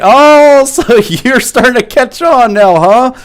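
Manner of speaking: loud, high-pitched mock taunt; drawn-out, gloating retold tease; teasing dad. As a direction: imitate a dad crowing teasingly at his son. Dad laughing, taunts his son.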